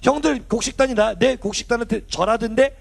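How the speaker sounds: a hint of clueless bragging; naive younger brother. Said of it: "처음에는 철이 없어서".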